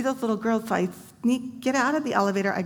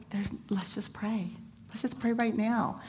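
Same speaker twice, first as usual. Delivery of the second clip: hushed prayer invite; 3 semitones higher, 6 dB quieter than usual. Retold or imitated. Quiet invitation to pray.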